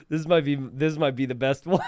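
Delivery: words broken up by real laughter; can't hold back the laugh; laughing while talking. Real, not acted. Streamer reacting to the best meme, laughing through it.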